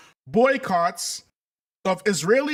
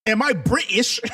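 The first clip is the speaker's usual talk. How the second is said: attempted British accent, pitched up; 4 semitones higher than usual. Host joking to family about Britain, attempted British accent. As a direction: try on a playful British accent. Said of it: "That's the best British accent I can come up with".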